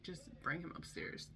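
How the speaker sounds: whispered, drained plea; worn-out aside. Retold or imitated. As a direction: barely voice it, totally done. Exhausted mom gives up.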